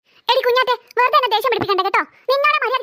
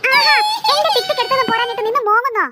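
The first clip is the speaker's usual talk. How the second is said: mildly raised, cross voice; indignant scolding. Acted. Sister scolds wailing sister over hair clip, indignant. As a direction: scold the cry-baby.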